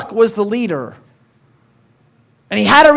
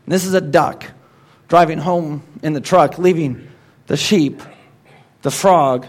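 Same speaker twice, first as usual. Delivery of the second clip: lively storybook reading; poem recital. Acted. Pastor reciting a duck poem to the congregation. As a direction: read it like a children's rhyme.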